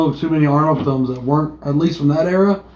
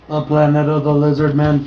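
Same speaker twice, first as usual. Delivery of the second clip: flat robotic monotone. Pretend. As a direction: announce it like a robot. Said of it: "I did that in a robot voice".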